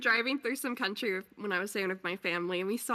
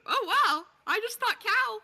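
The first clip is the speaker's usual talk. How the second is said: higher, louder, feigned amazement; mock surprise; 11 semitones higher, 4 dB louder than usual. Recalling her reaction to cow research, mock surprised. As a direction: act dazzled by a simple idea. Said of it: "and I was like".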